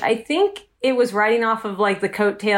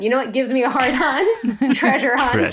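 laughing mock confession. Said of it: "He was like".

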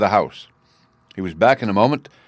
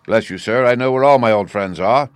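sinister smile; 5 dB louder than usual. Acted. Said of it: "with a sinister smile".

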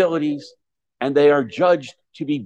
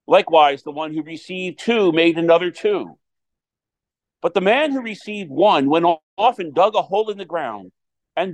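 gospel reading; 2 semitones higher than usual. Acted. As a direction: proclaim it from the pulpit.

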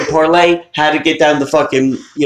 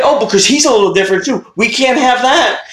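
mock disapproval; 7 semitones higher than usual. Mocking Santa's intolerance.

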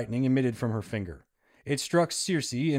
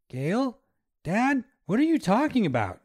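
high, louder demanding question; 10 semitones higher, 4 dB louder than usual. Acted. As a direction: demand an answer from Dad. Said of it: "he demanded".

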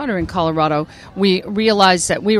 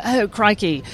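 mock Australian accent; playful take on an Australian accent; Crocodile Hunter; slower than usual. Actress imitating Australian TV talk, mock Australian accent. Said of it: "we know from the Crocodile Hunter".

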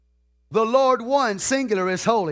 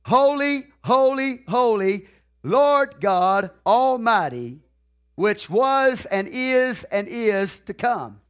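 beasts crying out; slower than usual. Retold or imitated.

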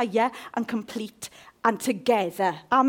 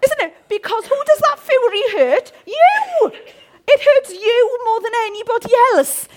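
high, loud punchy preaching; loud impassioned preaching; preaching at full force; 11 semitones higher, 11 dB louder than usual. Real, not acted. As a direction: drive the point home. Preaching climax.

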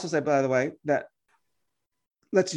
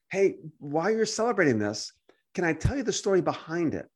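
softened, non-confrontational invitation; gentle; 3 dB quieter than usual. Acted. Believer asking to share the holiday's story, gently. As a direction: offer it kindly, a little softly. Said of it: "in love and compassion".

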